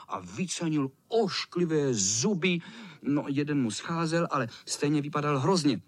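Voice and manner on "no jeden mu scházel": plain reading voice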